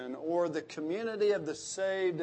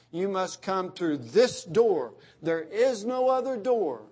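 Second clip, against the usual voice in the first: raised, emphatic preacher's voice, hammering each line; forceful preaching; 2 semitones higher, 3 dB louder than usual. Acted. Preacher declaring to the congregation, forceful preaching. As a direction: preach it with conviction.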